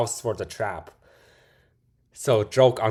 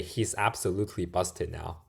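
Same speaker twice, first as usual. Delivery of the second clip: softly whispered, almost secretive; whispered gloat; 5 semitones lower, 10 dB quieter than usual. Shown as a demonstration. Savouring the thief getting caught, in a whisper. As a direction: whisper it like sharing a delicious secret. Repeating line in different ways.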